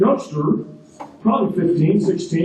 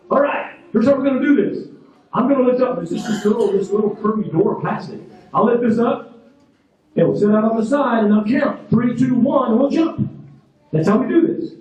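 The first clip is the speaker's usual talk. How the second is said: raised, higher-pitched instructor call; retold yelling; 4 semitones higher than usual. Jump instructor briefing a skydiver over the noise, mildly yelled. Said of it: "That time he yells at me".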